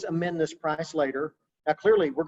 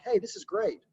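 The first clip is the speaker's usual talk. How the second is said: higher-pitched upbeat reassurance; imitated encouragement; 8 semitones higher than usual. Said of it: "to encourage them".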